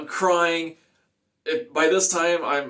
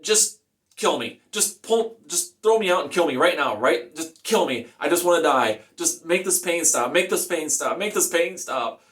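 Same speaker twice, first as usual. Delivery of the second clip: raised, insistent begging; higher-pitched, repeated pleading; retold screamed plea; 4 semitones higher than usual. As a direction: re-enact a desperate plea, short of screaming. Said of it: "I've never screamed so loud".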